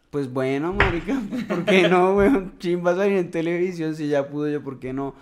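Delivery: loud, high and laughing; excited. Retold or imitated. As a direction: blurt it out, thrilled and giggling. His excited retold reply.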